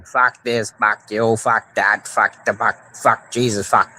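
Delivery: rattled-off Mainer cursing; Maine accent. Shown as a demonstration. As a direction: curse evenly like a Mainer. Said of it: "Every other word is fucking mean".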